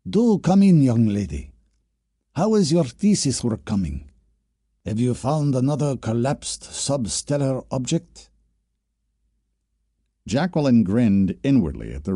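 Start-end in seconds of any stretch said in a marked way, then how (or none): 0.1-8.3 put-on higher, delighted old professor voice; Solinsky beaming. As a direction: welcome the student warmly and brightly. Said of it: "his face beaming with pleasure".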